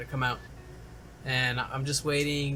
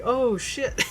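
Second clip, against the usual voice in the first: high, drawn mock-alarmed exclamation; acted-out startled reaction; retold alarm; 10 semitones higher than usual. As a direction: imitate a friend realizing there's trouble.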